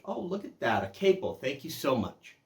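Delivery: overdoing the delight at his son's present; gracious thanks. Retold or imitated. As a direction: gush a little over the gift. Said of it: "I was very gracious in receiving his gift".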